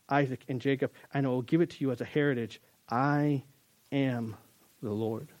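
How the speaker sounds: steady solemn Bible reading that softens toward the end; scripture reading. Acted. Pastor reading God's promises to the church, solemn reading voice. Reads Exodus 6 aloud.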